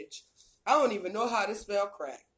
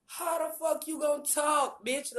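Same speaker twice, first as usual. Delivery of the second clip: angry shout; 5 semitones higher than usual. Real, not acted. Ranting at haters, rising to shout.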